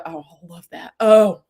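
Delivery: a light, self-admittedly bad Southern accent. Getting into her wine-drinking mystery-solving Southern woman, light Southern accent. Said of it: "I do not do a good Southern accent".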